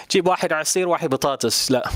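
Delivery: native Arabic flow. Shown as a demonstration. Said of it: "Just spit it out".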